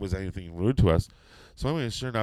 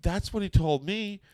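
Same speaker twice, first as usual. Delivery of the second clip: nervous; 9 semitones higher than usual. Retold or imitated. Nervous joke to Undertaker, high.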